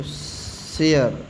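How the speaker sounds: शेयर stretched very slowly, "she-e-yar"; slow drawn-out repeat. Shown as a demonstration. Teacher repeating शेयर slowly so students copy. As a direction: drag out शेयर syllable by syllable. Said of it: "क्या पढ़ेंगे इसको?".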